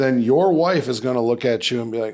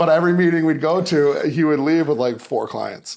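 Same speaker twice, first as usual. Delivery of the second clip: usual speaking voice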